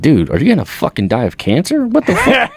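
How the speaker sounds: high, laughing disbelief; high-pitched laughing what the fuck; incredulous laughing outburst. Retold or imitated. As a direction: laugh it out at the weirdo dad. Son retells reacting to dad.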